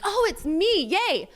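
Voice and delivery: high, loud sarcastic cheer; a mocking little victory yelp; mock excitement. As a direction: squeal it like a mock win. Mock-celebrating she was chosen.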